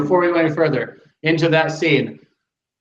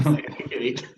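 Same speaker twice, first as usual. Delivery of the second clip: deadpan echo; 5 semitones lower, 8 dB quieter than usual. Retold or imitated. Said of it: "And he goes".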